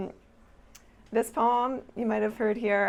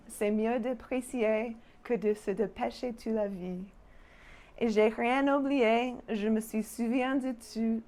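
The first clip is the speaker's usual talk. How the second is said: poem recital in French. Acted. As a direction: let each French line settle gently. Reads her French poem.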